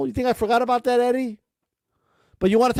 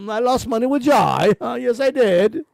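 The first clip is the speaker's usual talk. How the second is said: smug Eddie mockery. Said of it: "I'm a smug little asshole".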